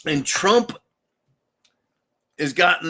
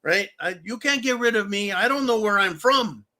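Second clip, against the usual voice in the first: mock Spanish-speaking immigrant accent; 4 semitones higher than usual. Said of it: "these illegals are gonna say".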